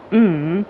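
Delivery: hummed "mm" with a bent tune; tonal "mm". Shown as a demonstration. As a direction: let the hum carry the meaning. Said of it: "just the tone of".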